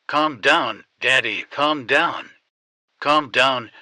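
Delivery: a frightened daughter begging her father to steady himself; urgent pleading. Acted. Daughter on the phone urging panicking father, loud and urgent.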